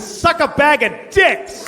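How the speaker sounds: high, drawn-out yell; driver's parting insult; slow furious shout. Retold or imitated. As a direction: hurl it slowly at him. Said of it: "He says".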